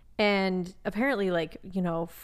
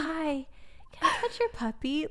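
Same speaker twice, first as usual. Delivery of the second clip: put-on eager kid; 8 semitones higher, 4 dB quieter than usual. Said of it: "and he's like".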